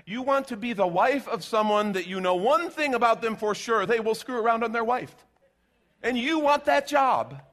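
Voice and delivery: pointed sarcastic disbelief, rising high and loud; incredulous mock. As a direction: spell it out like it's absurd. Sarcastic rebuke of affair girl.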